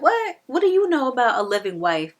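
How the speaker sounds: loud, high-pitched acted indignation; mock outrage. Rochester confronts the solicitor who exposes his wife, mock outrage. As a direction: blurt it out, shocked and challenging.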